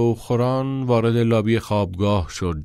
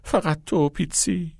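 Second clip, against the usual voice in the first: mock proposal; 6 semitones higher, 3 dB quieter than usual. A narrator's reading.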